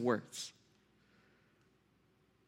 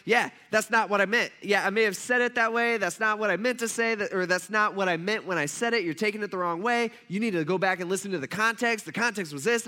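defensive; 4 semitones higher, 3 dB louder than usual. Retold or imitated. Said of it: "I was getting a little defensive".

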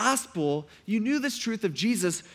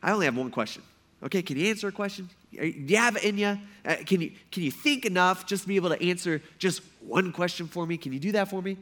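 sarcastic; faster than usual. Acted. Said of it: "He's being sarcastic".

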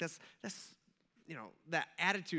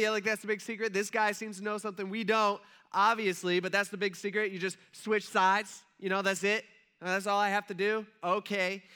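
mock sarcasm; 4 semitones higher, 5 dB louder than usual. Acted professionals scoffing at advice.

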